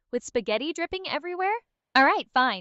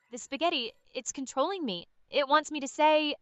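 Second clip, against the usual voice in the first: strained and panicked; 2 semitones higher than usual. Pretend. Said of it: "Her voice becomes more strained and panicked".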